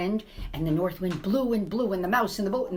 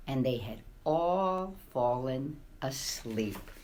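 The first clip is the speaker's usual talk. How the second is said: bedtime hush; 7 semitones lower, 5 dB quieter, slower than usual. A narrator's reading. Children asleep, bedtime hush.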